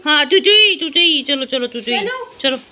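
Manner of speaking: loud high pet call; loud sing-song pet call. Real, not acted. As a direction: coax the pet in, loudly. Calling the pet inside.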